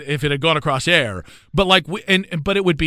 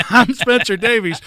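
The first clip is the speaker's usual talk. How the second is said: Dusty Rhodes impression; 6 semitones higher, 3 dB louder than usual. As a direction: keep the hammy promo voice. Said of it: "with an impression of Dusty Rhodes".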